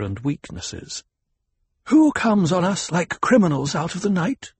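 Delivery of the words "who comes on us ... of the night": high-pitched imperious demand; royal arrogance. A narrator's reading. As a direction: demand it with haughty command. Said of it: "all the royal arrogance at her command".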